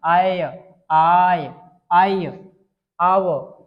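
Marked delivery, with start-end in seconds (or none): 0.0-2.3 आय stretched long and loud, sound by sound; teacher drilling the sound आय; drawn-out आय. Shown as a demonstration. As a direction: sing out आय slowly for the class. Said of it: "आय, कैसा उच्चारण?".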